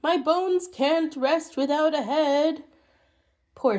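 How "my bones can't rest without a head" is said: skeleton voice. Acted. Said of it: "the skeleton said".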